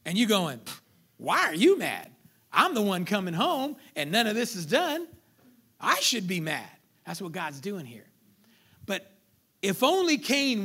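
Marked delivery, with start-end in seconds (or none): 1.2-6.7 loud, acted parental indignation; hammed-up indignant parent, punching the words; exasperated parent. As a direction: scold like a parent who got home to undone chores. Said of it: "Your kids are mad because you punished them".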